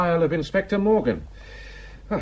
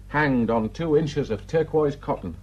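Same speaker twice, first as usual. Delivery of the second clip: gloating chuckle. Acted. Reporter relishes the hanging.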